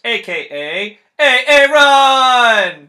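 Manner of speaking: drawn-out yelled intro name; hype shout. Real, not acted. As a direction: bellow the name like a hype man.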